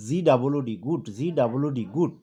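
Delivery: গুড spelled letter by letter, then said whole, twice over; spelling drill. Shown as a demonstration. Teacher models home study for students, spelling গুড aloud and repeating it. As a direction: chant the letters of গুড, then land the word. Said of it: "কয়েকবার বানান করে কয়েকবার উচ্চারণ".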